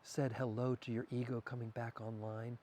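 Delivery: soft, unhurried murmur; lightly hushed, intimate questioning; hushed bedtime whisper. Shown as a demonstration. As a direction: murmur it gently to someone waking. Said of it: "These are the things I whisper".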